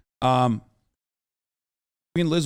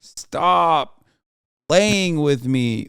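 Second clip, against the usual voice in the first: disbelief; much slower than usual. Real, not acted. Reacts in disbelief to news.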